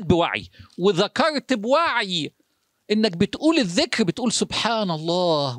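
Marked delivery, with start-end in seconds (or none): 4.3-5.6 savoring the dhikr. Shown as a demonstration. Preacher showing how to say dhikr mindfully, slow and reverent. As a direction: let each word sink in slowly. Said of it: "وإنت شايف عمل إيه في حياتك".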